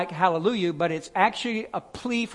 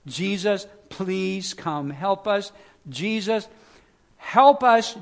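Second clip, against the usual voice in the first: desperate plea; 2 semitones higher, slower than usual. Shown as a demonstration. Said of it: "All those people on Palm Sunday were saying".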